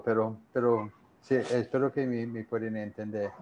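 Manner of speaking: Spanish with a gringo accent; English speaker's accent in Spanish; American accent Spanish. Real, not acted. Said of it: "sigo hablando como gringo".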